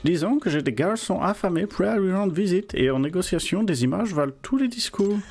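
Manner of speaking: put-on a loose Russian accent in French. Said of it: "je sais pas faire un accent russe".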